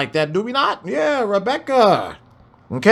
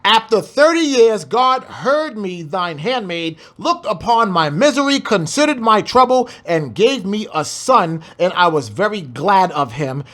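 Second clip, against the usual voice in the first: scripture reading. Shown as a demonstration. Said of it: "I'm gonna read it one more time".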